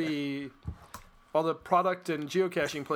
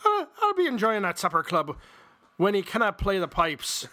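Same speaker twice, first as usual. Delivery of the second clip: a touch of a Scottish brogue, a bit louder; 3 semitones higher, 4 dB louder than usual. Acted. Cohost voicing the Scotsman from the joke in a Scottish brogue. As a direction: ham up a Scottish accent for the Scotsman. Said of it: "in your best Scottish brogue".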